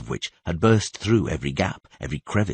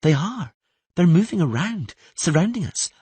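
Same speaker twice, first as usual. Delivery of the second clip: put-on much higher girl's voice, indignant; a girl challenging him, louder; Ciri arguing; 12 semitones higher, 4 dB louder than usual. Ciri protesting about staying neutral, high and indignant.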